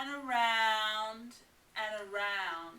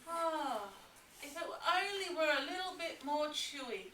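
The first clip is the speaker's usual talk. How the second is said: sighing; 5 semitones higher, faster than usual. Acted. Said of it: "she sighed".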